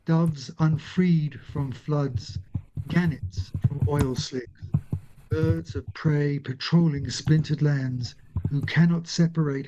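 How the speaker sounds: measured, deliberate poem recital; poetry reading. Acted. Reads her poem aloud.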